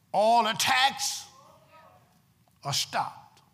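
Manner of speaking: emphatic preaching with long pauses between phrases. Real, not acted. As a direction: drive each phrase home to the congregation. Preaches to the congregation.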